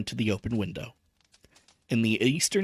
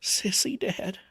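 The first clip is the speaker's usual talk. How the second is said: vacant repeat; 9 semitones higher, slower than usual. A narrator's reading. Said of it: "he said vacantly".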